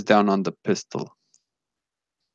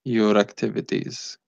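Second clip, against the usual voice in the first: emotionless, evenly spaced robotic delivery; eerie calm robot voice. Acted. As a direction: speak like a machine with no feeling. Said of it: "This guy speaks in, in a very, very eerie calm".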